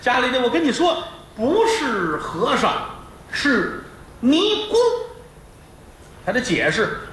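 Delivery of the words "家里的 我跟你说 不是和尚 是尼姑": mild pleading wife; wife explaining. Acted. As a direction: patiently set him straight.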